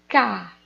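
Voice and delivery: "Cá" alone, loud and firm; stressed syllable demo. Shown as a demonstration. Teacher answering which syllable of carne is tonic, "Cá" firmly stressed. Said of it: "Qual a sílaba tônica?".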